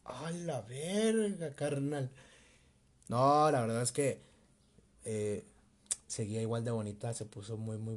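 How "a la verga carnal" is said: stretched out very slowly like a movie flashback; a slow-motion movie-moment gasp; slow-motion exclamation. Retold or imitated. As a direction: drag it out in dreamy slow motion. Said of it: "flashazos de película en cámara lenta".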